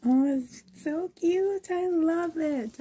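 high-pitched, adoring delight; delighted gushing. Real, not acted. Gushing over baby clothes.

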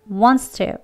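wants to with a clear s before the t; s-sound wants to. Shown as a demonstration. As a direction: hiss the s in wants to. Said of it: "스소리 나는 발음입니다".

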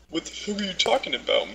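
high-pitched, imitated incredulous laugh; laughing disbelief. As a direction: retell it in a high, giggly voice. Retold gamer laughs in disbelief.

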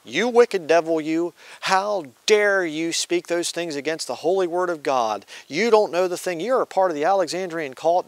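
indignant rebuke. Retold or imitated. Woman in church rebuking the pastor, indignant scolding. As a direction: denounce him as a false teacher.

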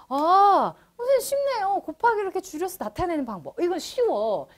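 lightly acted student finding it easy; imitated overconfident student. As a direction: play a pupil breezily sure of it. Teacher voices overconfident students.

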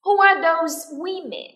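drawn-out question for learners to copy; repeat-after-me model. Shown as a demonstration. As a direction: project each word slowly for the class. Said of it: "listen and repeat after me".

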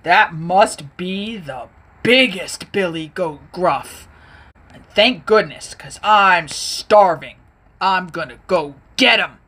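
a starving troll plotting; lightly voiced greedy troll; sly hungry troll. Troll voice held in story.

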